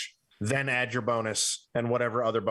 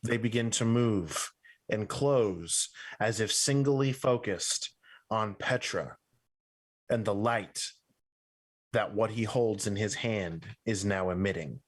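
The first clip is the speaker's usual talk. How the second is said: slow, measured narration with long pauses; game master's scene setting; slower than usual. A narrator's reading. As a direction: describe it deliberately, phrase by phrase. Game master describes the undead.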